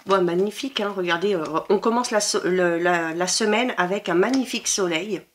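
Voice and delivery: normal talking voice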